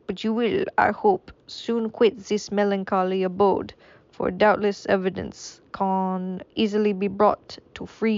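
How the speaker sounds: a hint of a French accent, kept loosely; lightly voiced French gentleman consoling the prisoner. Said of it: "this is French anymore".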